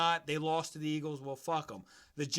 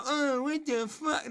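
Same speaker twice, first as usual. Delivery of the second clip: offended LeBron fan; 8 semitones higher, 3 dB louder, slower than usual. Retold or imitated. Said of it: "you Bron sexuals out there to get offended".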